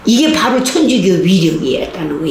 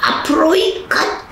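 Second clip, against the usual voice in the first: drill commands; 9 semitones higher than usual. Retold or imitated. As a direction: call out orders like a prison guard. Prison guard drill commands. (교도관 구령 흉내)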